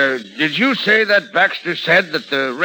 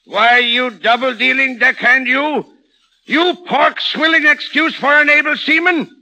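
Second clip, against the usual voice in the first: furious tirade; 7 semitones higher than usual. Acted. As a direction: rage down the phone line at the double-crosser. Cappy raging at rival on phone.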